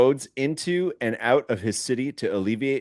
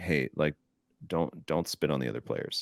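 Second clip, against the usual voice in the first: put-on calmest voice, lower and quieter; 8 semitones lower, 9 dB quieter than usual. Retelling what Phil said back at the bench, imitating Phil's very calm voice. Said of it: "in the calmest way I've ever heard".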